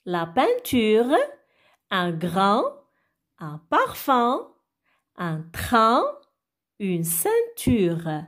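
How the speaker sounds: slow model reading, word by word; word-list reading. Shown as a demonstration. Teacher reads the words for children to repeat, word-list reading. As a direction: read each word out slowly, with pauses between. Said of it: "je vais lire maintenant les mots".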